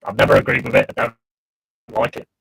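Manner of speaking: metallic Dalek-like line; bad connection, robotic sound. Real, not acted. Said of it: "You sound like a Dalek".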